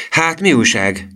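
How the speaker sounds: high-pitched eager question; excited. A narrator's reading. Emil asking the lift boy for news, excited. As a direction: ask excitedly, pitch jumping up. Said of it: "kérdezte Emil izgatottan".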